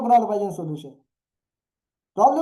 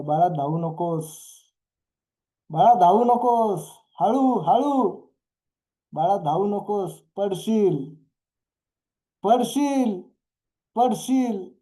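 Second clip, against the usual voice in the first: acted warning cry; 3 semitones higher, slower than usual. Parent warns running toddler not to fall, acted calling out. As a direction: call after a toddler in mock alarm. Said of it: "तुम्ही जोरात ओरडताय".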